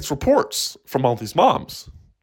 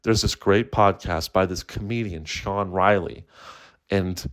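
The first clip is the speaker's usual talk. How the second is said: therapist voice; 4 semitones lower than usual. Acted. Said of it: "He's like".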